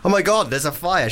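half-hearted shock at finding a fire; mock alarm. Host acts waking up to a fire, mock alarm.

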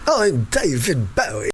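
slow, deliberate Bowie voice; a light David Bowie impression. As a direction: say it slowly in his voice, like a rock star. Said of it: "I can do 'em all".

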